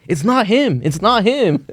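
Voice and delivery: put-on high, insistent old lady voice. Old lady defending stranger to coworker, high insistent. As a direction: vouch for him earnestly.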